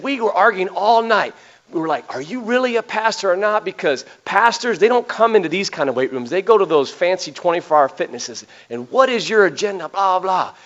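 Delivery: half-acted challenge from a tough guy; lightly voiced suspicious gym man. Ex-prisoner retelling his wife's doubts to the pastor, in a lightly voiced suspicious tone.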